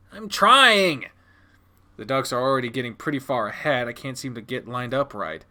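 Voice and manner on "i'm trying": raised, higher-pitched protest; flustered protest. Acted. Child struggling to aim for dad, flustered protest. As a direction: protest under pressure.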